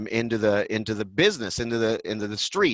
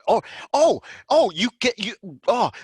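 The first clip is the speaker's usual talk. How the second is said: high, louder teasing oh's; mock taunting boss; 9 semitones higher, 4 dB louder than usual. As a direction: tease the rookie over the phone. The speaker taunting on the phone.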